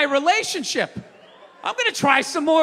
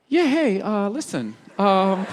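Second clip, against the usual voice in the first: timid wife voice; 5 semitones lower, slower than usual. Retold or imitated. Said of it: "she'd just be like".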